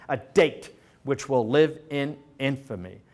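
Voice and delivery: lightly imitated presidential address, weighting key words; a hint of solemn speechmaking; Roosevelt. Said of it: "typically speak like that".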